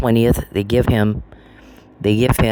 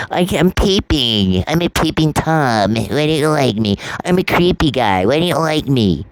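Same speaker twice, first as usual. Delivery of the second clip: higher, mocking voice of the person she despises; mocking whiny imitation; 5 semitones higher than usual. Mocking the man who ruined her life, pitched up. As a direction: mimic him pleading, lightly pitched up. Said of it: "and go".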